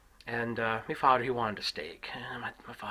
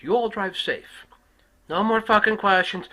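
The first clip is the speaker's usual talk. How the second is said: slow, loud, higher trooper bark; trooper shouting; 10 semitones higher, 11 dB louder, slower than usual. Retold or imitated. Trooper ending the stop.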